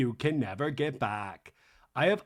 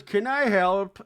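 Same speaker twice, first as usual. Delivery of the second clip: mock Meredith offer; 4 semitones higher, 5 dB louder, slower than usual. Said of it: "And then Meredith goes".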